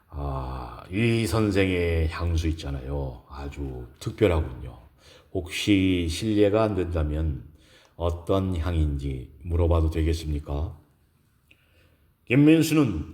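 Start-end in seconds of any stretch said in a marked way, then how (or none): 0.1-10.8 lower, hesitant professor's voice; low-pitched, courteous character voice; curious male professor. Acted. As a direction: ask discreetly as a reserved man.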